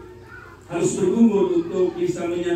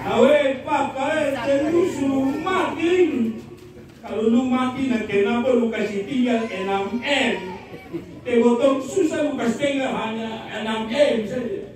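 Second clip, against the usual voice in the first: high, slow, hammed-up lament in a Rote manner; mock wailing widow; 3 semitones higher than usual. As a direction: wail over the husband like a complaining widow. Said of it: "Jadi dia menangis begini". (ratapan janda yang dibuat-buat, nada tinggi dan lambat)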